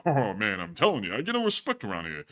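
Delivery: lightly voiced gruff comic complainer; Rodney voice. Cohost riffing a joke about the border in a Rodney-style voice. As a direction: put on the put-upon comedian, griping. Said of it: "that Rodney voice".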